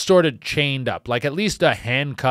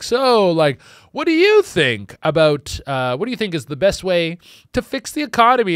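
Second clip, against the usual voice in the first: cheery host; 4 semitones higher than usual. Retold or imitated. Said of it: "the host would be really cheery".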